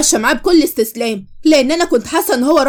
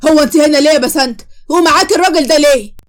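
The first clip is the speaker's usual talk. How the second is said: louder, raised jealous challenge; jealous demand; 4 dB louder than usual. Acted. Ex stops bride and fiance outside mall, loud jealous challenge. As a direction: confront her like a jealous ex.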